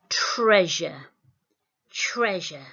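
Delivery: careful teacher demo of the word; clear model word. Shown as a demonstration. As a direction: say treasure slowly and clearly, each sound distinct. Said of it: "Listen really carefully to this word".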